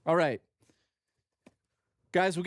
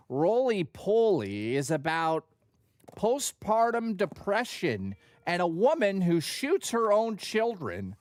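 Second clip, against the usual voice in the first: slow, higher, deadpan mock David Lynch; talking like David Lynch; 4 semitones higher than usual. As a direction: pitch the film gravely, a light Lynch imitation. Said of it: "I'd talk like David Lynch".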